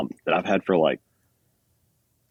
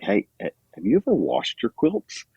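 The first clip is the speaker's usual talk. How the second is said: higher-pitched retold shocked question; mock shock; 5 semitones higher than usual. Hikers on a trip asking about washing quilts, mock shocked. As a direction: ask it as if mildly shocked, imitating the group.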